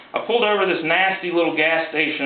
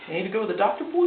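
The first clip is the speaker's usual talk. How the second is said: put-on hillbilly mix accent; 6 semitones higher, 3 dB quieter, faster than usual. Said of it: "he said again".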